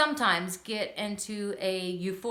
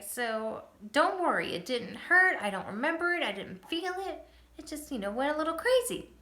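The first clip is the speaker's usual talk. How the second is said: put-on reassuring child; 6 semitones higher than usual. Comforting worried son.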